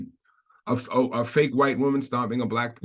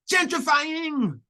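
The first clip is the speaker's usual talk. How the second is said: high, drawn-out mock Afro-Latina accent; bad mock accent; much slower than usual. Heckling a passing runner in a bad, high mock Latina accent. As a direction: stretch it out in a terrible put-on Latina accent. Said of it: "Again, bad accent".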